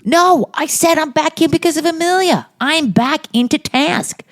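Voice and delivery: high-pitched, indignant outburst; over-the-top defensive squeal; emphatic protest. Real, not acted. Indignant reply to teasing about shelving.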